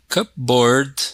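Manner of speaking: "cupboard" with the P left unpronounced; silent P. Shown as a demonstration. Teacher giving an example of silent letters, silent P in "cupboard". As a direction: say "cupboard" without sounding the P. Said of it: "we don't pronounce the P".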